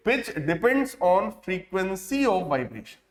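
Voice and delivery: slow, word-by-word dictation pace; dictating to a class. Shown as a demonstration. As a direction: read it out slowly so students can write. Dictating notes.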